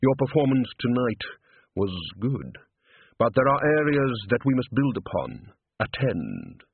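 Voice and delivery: measured, formal instructor's voice; a hint of a stern, mysterious music master; lightly voiced opera tutor.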